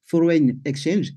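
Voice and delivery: "Foreign Exchange" said slowly in English with a French accent. Shown as a demonstration. Presenter explaining Forex to the audience, slow French-accented English. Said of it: "excusez-moi pour mon accent".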